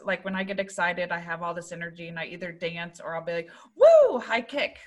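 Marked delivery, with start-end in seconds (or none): 3.8-4.8 high, slow cheerleader cheer. Retold or imitated. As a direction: whoop it like a cheerleader. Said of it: "pretend like I'm a cheerleader".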